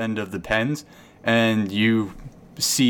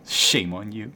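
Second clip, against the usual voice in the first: vain flirty cow. Acted. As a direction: play the cow as a vain flirt, well below your own pitch.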